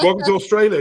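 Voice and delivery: an Aussie flight attendant, hammed up; mock Aussie attendant. Imagining arrival, a mock Australian attendant's welcome. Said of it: "and they're like".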